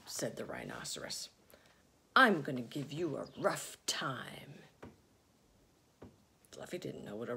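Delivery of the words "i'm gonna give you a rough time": menacing rhino. Acted. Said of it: "asked the rhinoceros unkindly".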